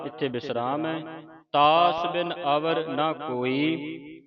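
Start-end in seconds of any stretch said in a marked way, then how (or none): 1.5-4.2 slow, measured verse recitation; slow devotional reading; scripture recitation. Shown as a demonstration. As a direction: recite with long drawn-out vowels.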